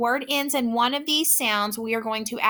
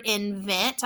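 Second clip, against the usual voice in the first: slow blending; 2 semitones lower, 3 dB quieter than usual. Shown as a demonstration.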